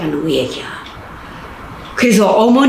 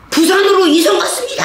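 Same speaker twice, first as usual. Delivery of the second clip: high, changed voice of a crowd answering together; chorus of prisoners; 13 semitones higher than usual. Retold or imitated. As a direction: answer in unison like two hundred inmates. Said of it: "합창을 대는 거야". (죄수들이 합창하듯 대답)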